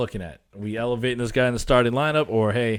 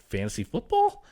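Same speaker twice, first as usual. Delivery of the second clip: higher, rising FOOTBALL as a baffled question; imitated clueless question; 6 semitones higher than usual. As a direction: mimic a wife with no clue asking. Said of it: "Anything she has no clue about, she just says".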